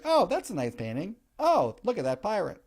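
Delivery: a hint of a gushing admirer. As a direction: coo over the painting. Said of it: "And be like".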